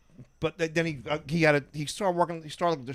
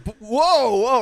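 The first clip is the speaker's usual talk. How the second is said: mock audience gasp; 9 semitones higher, 9 dB louder, much slower than usual. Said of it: "people in the audience like".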